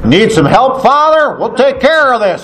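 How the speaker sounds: high, sing-out offer of help; eager helpers. Retold or imitated. Machete men to stranded priest, eager call.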